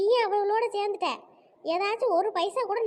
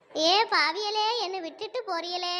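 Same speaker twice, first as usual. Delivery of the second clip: mock-abandoned wail. Woman calling after departing friends, feigned plaintive wailing. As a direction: wail after them as if deserted. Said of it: "அதுக்குள்ள என்னை விட்டுட்டு போறீங்களேன்னு கேக்குறிய?".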